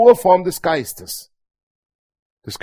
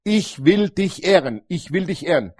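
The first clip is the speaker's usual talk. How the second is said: spoken declaration. Shown as a demonstration. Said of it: "diese Dinge laut zu sprechen".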